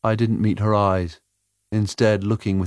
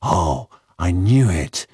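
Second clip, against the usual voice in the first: slow, louder sigh of resignation; 5 dB louder, slower than usual. A narrator's reading. Tomo hearing his records will be left behind, sighing. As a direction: sigh it out slowly. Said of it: "sighed Tomo".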